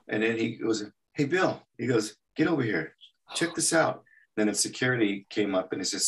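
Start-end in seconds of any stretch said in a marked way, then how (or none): 1.1-4.0 imitated calling over. Barbera calls colleague over.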